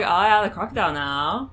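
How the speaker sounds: mock Maine accent. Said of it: "a ridiculous Maine accent".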